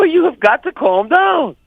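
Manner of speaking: very high, slow, drawn-out plea; exaggerated high voice, urging calm; high-pitched retold plea. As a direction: push the voice way up and stretch each word. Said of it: "in this, in this voice".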